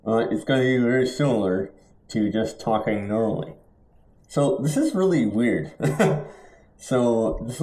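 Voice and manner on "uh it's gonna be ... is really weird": mouthpiece between teeth; talking without lips. Real, not acted. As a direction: speak around a dive mouthpiece. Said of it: "I can't use my lips to talk".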